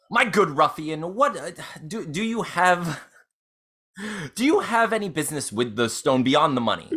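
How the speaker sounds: lightly voiced noble lady addressing a ruffian; a touch of formal lady's poise, halting as she asks; Lady Growlhund. Lady questioning a ruffian about business, lightly formal. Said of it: "turn to Erstal Floxen as Lady Growlhund".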